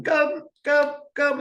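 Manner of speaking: high, bright, eager come come; inviting, excited. Shown as a demonstration. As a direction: call the dog in with open arms. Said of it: "you squat down ... open arms".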